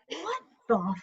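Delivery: rising, shocked, pitch jumping up at the end; hammed-up horrified outburst; mock horror. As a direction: recoil in disbelief at the screen. Horrified at own video.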